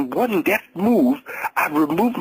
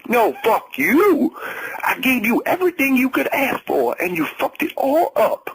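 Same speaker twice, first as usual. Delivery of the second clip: bitter rage; 8 semitones higher than usual. A narrator's reading. The ex-husband raging at his ex-wife, bitter. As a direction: hurl it back at her.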